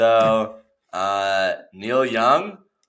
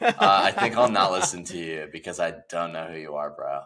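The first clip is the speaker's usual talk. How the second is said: lower, mumbled impression of a singer; low mock voice of the singer; 10 semitones lower, 6 dB quieter than usual.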